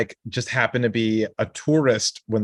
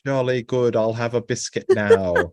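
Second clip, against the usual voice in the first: bad English accent. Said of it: "That's my English accent".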